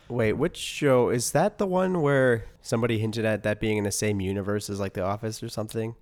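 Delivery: ordinary talk, nothing marked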